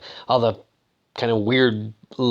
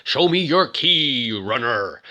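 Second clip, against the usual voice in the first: slow, drawn-out command voice; announcing voice; slower than usual. Retold or imitated. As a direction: imitate a gatekeeper's slow demand. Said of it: "a voice comes over".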